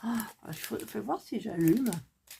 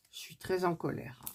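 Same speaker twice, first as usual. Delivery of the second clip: subdued; 7 dB quieter than usual. Real, not acted.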